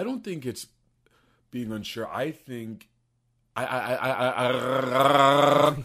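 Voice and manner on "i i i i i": loud, exaggerated stuck stutter; mock stutter. Shown as a demonstration. Co-host showing why people stutter, loud stuck stammer. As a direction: jam on the word, getting louder.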